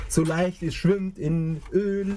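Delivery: slow, high commercial voice. Pretend. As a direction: sell it like a TV ad. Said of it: "die Werbung".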